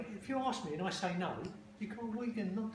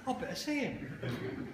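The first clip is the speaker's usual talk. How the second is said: said slowly through a laugh; slower than usual. Real, not acted. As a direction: still laughing as he gets the words out. Laughing after punchline.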